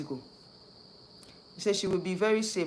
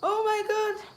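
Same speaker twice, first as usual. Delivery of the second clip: exclaim; slower than usual. Real, not acted. Exasperated exclamation.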